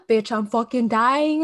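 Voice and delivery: loud, drawn-out mock-desperate complaint; desperate retold plea. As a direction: plead loudly over the club music. Retold plea over loud music.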